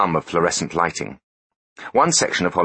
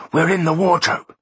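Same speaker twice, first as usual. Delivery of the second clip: much higher, eager announcement; excited; 12 semitones higher, 3 dB louder than usual. Acted. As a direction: call it out pitched up with glee. Second take, excited.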